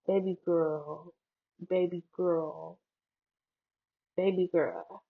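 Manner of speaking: put-on slow "baby girl" with L from the back of the throat; careful "baby girl", full final L; every letter pronounced. Shown as a demonstration. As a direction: test out "baby girl", drawing out "girl". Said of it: "back of my throat making that sound".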